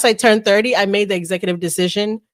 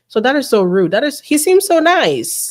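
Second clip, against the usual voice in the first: funny mocking repeat; 4 semitones higher than usual. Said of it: "repeating it back to you in a funny way".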